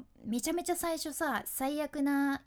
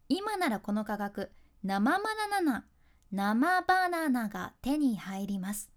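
slow ad read, stumbling then calmly restarting; mock sales pitch with flubs; 7 dB louder than usual. Shown as a demonstration. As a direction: trip over the word, then say it again slowly. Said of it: "いきますよ". (噛んでからゆっくり言い直す通販口調)

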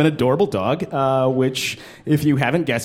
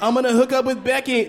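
mock horny guy; 9 semitones higher than usual. Acting out whale-like humans.

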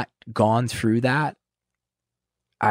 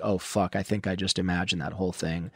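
hushed realization; 4 semitones lower, 8 dB quieter than usual. Retold or imitated. Sobering realization, inner thought.

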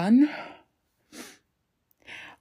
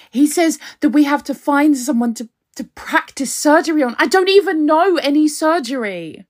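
higher, louder frightened pleading; frightened rant; 4 semitones higher, 3 dB louder than usual. Acted. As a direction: blurt it out scared. Frightened rant about kidnapper.

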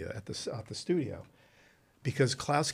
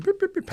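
beeping game sound; 6 dB louder than usual. Retold or imitated. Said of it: "imitating game noise".

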